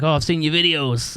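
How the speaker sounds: a hint of mock Scottish; Scottish accent. Promoter tells the musician he knows him, lightly imitated Scottish accent. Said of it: "do you like my Scottish accent".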